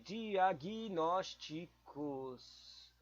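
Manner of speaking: "Diagnósticos" stretched very slowly; very slow sounding out. Shown as a demonstration. Thinking aloud over a quiz word, "Diagnósticos" very slow. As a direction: crawl through "Diagnósticos" one sound at a time. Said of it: "Deixa eu pensar aqui".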